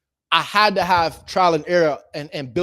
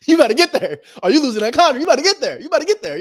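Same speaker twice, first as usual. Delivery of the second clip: high, loud teasing warning; mock bossy warning; 8 semitones higher, 6 dB louder than usual. Warning a realtor to hurry to the seller, high and loud mock command. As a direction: tease them to hurry up.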